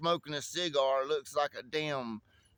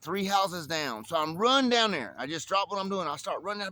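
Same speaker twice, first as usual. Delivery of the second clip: ordinary delivery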